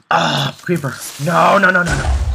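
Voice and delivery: high, loud frantic no's; panicked screaming. Real, not acted. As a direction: scream as the creeper closes in. Creeper about to explode.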